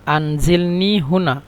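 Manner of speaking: slow teaching read. Shown as a demonstration. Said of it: "আমাকে এখানে নামিয়ে দাও".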